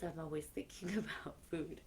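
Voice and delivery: quick hushed confession with a laugh; whispered aside. Real, not acted. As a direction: share it like a little secret. Joking aside about food.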